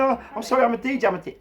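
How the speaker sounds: high, loud pleading imitation; panicked apology. Guest apologises when grabbed.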